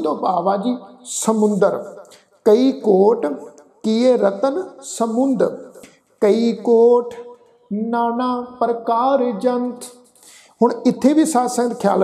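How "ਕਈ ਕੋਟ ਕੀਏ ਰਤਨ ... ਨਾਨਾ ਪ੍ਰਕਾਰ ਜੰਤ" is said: slow, measured verse recitation; deliberate chant-like reading with pauses; scripture recitation. Shown as a demonstration. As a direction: recite line by line with held final syllables.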